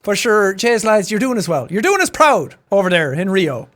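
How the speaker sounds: lightly imitated Irish well-wisher; Irish accent. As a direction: cheer on the lads in broad Irish. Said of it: "this is one of those accents".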